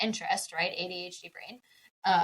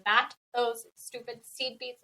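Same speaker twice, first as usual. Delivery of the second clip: laughing disdain. Real, not acted. Joking hatred of craft beads.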